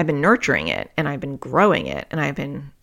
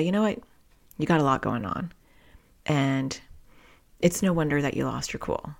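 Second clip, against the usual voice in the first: supportive inner voice; 5 dB quieter than usual. Retold or imitated. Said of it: "normalize that for yourself and say".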